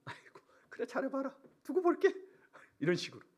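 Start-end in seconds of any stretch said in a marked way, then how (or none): 0.0-2.1 imitated jeer, soft then pitched up; mock scorn rising at the end. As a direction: taunt a believer with feigned doubt. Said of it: "비웃는다는 거예요".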